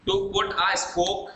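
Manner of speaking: very slow, word by word; spaced-out teacher's dictation. Shown as a demonstration. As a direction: dictate it slowly for note-takers. Dictating an idiom to students.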